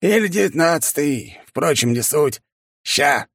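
high raucous bawling; hollering. A narrator's reading. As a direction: holler it out crudely. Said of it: "снова начал горланить он".

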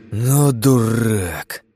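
slow, exasperated huff; irritated snort. A narrator's reading. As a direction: scoff it out, annoyed. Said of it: "фыркнул раздражённый я".

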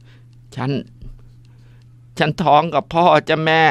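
a breathless false start, then high, slow and trembling; halting tearful confession. Acted. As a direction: force out the terrible secret.

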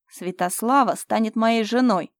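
slow, loud, final pronouncement; slow declaration. Acted. Fyodor announces Slava will be his wife, slow and loud. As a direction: lay down the verdict.

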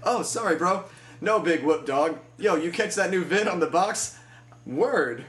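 high laid-back slang dude; easygoing slang, no big deal; chill bro voice. Retold or imitated. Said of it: "And then the alternative".

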